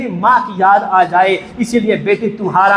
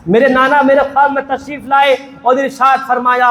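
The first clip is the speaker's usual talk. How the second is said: preaching; 3 semitones higher than usual. Acted. Preacher builds to the dream.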